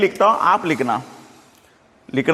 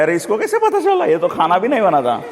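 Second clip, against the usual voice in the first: tense, mock alarm; 3 semitones higher than usual. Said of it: "वो एकदम tension में आ गया". (घबराहट की नकल, ऊँची आवाज़ में)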